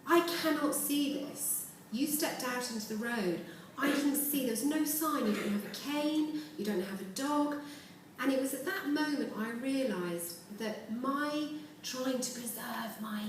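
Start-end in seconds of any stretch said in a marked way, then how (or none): 0.0-7.5 mild, slowed, higher retelling of a crying driver; a touch of choked-up disbelief, not real sobbing; tearful cabbie. Retold or imitated. Taxi driver upset after hitting a blind pedestrian, mildly tearful. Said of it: "And he started crying".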